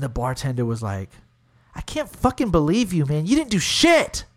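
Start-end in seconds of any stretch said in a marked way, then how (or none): 1.7-4.3 mock-indignant, pitch leaping up at the end; retold angry outburst. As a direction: act out a fed-up bartender, voice climbing. Angry bartender confronts him in story.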